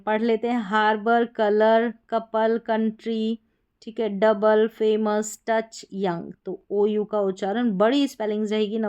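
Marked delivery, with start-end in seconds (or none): 0.6-6.3 कलर, कपल, टच with ओयू as a short "uh"; "uh" sound. Shown as a demonstration. Teacher reads spellings to students, short "uh" sound. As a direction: read each word with a plain "uh" vowel. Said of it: "अ करके हैं".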